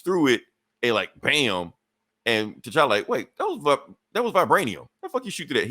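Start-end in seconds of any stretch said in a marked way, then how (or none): 3.1-5.7 higher-pitched, lightly acted disbelief; mock astonishment. Hero seeing his vibranium shot through, astonished. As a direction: play the hero caught off guard, pitch jumping up. Retelling hero's shock at pierced vibranium.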